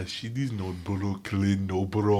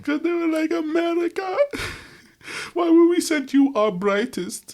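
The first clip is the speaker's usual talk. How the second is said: high, laughing villain voice; anime villain; 5 dB louder than usual. Acted. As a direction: cackle through it like an anime villain. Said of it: "You sound like an anime villain".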